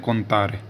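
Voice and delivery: contare in Italian, rolled r; Italian word. Shown as a demonstration. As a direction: say contare as kon-TAH-re. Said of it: "गिनती को Italian में बोलते हैं".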